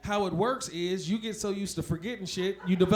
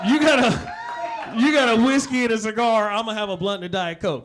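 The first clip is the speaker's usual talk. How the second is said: shouting; 2 semitones higher, 10 dB louder than usual. Acted. Golf course punchline shouted.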